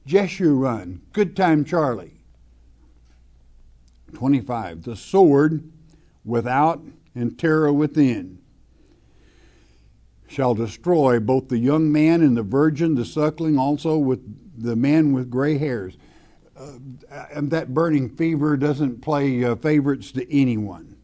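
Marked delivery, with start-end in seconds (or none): 4.8-16.0 louder, solemn Bible reading, hitting "sword"; scripture reading. Acted. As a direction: proclaim the judgement verse with weight. Reads scripture aloud from pulpit.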